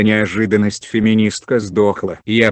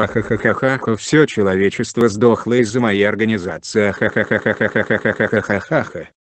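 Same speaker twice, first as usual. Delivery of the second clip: mustache twirling villain. Acted. Villain reveals himself, evil laugh.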